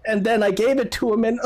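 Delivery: high voice collapsing into a mock wail; hammed-up weeping mother; acted crying. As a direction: break down mid-sentence into put-on sobs. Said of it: "she starts crying".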